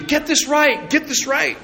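put-on high, squeaky baby voice begging; baby pleading. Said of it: "the baby's even pleading with you".

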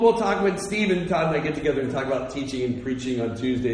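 ordinary delivery

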